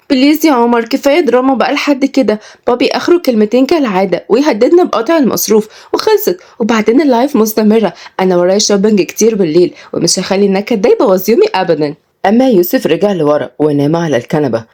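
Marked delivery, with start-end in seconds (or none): 0.1-11.9 put-on higher, breezy spoiled-girl voice; spoiled dismissive girl. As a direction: brush off the drama like a spoiled daughter. Spoiled sister Laila dismissive.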